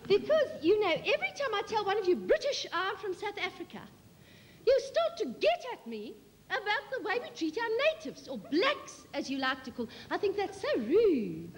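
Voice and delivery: prim, fast-talking South African auntie, indignant. Acted. Auntie Kitty tells the British audience off, prim South African. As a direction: rattle it off like a prim disapproving visitor.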